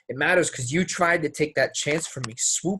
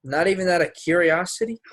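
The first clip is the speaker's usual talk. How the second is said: pressing; 7 semitones higher, 4 dB louder than usual. Acted. Pressing her in an argument.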